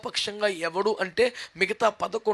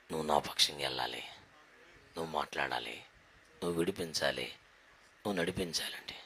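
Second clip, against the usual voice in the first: much lower, softer, solemn commands; voice of God; 10 dB quieter than usual. Acted. God sending Moses to free his people, low and solemn. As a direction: speak as God, low and measured.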